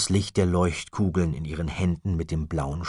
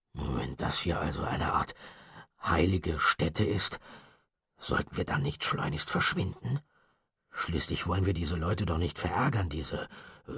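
lightly voiced anxious boy, softer; a worried friend urging to leave; a hint of a frightened boy; nervous Chester; 5 dB quieter than usual. Chester's voice in the story.

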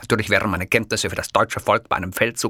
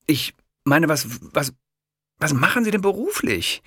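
eager kiosk man; 9 semitones higher than usual. A narrator's reading.

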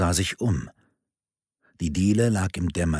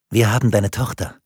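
verstellte Stimme; 5 dB louder than usual. A narrator's reading. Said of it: "etwas benutzte, um seine Stimme zu verstellen".

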